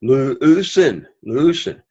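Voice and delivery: "Leusen" accented on its opening "leu"; first-syllable stress. Shown as a demonstration. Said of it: "accent is on the first syllable".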